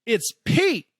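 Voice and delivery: lightly voiced mom, high and wistful; mom's wistful voice. Son imitating his grieving mom over photos, high and wistful. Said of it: "And then she goes".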